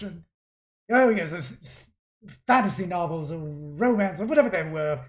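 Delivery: loud, dismissive grumbling villain; exasperated artificer father. Acted. Father conceding to his attendant, exasperated. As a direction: give in with testy impatience. Game master plays the father.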